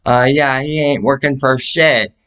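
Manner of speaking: lightly voiced scornful rant; mock trash talk. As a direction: roast him to everyone. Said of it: "I hit it up".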